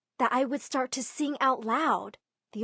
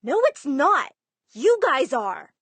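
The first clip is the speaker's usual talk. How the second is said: louder, defiant talk-back to the family; yelling back; 4 semitones higher, 7 dB louder than usual. Retold or imitated. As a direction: snap back at them, loud. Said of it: "and I yelled back".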